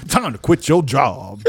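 slow old-school rap cadence, imitated; old-school rapper imitation. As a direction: lightly imitate an eighties rapper's flow. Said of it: "he got that old-school rapper flow".

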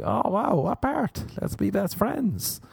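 high-pitched, over-eager fawning; starstruck gushing. Acted. Comic meeting a famous person claiming Irishness, high gushing. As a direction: gush like an instant best friend.

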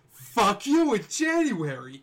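slow loud catchphrase; shouted catchphrase. Acted. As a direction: bellow it out slowly. Catchphrase repeated.

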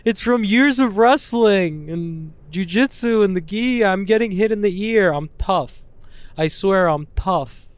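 high, whiny protesting voice; mock defensive explaining. Fighter explaining cauliflower ears to strangers, mock defensive. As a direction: plead your case in a high mock whine. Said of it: "me constantly trying to explain".

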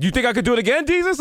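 lightly voiced cocky director; mock Nolan taunt. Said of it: "He's like".

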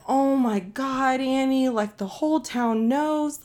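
slow, drawn-out mock wail; imitating crying mom. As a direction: wail it like an upset mom, without real tears. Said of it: "She's fucking crying. She's like".

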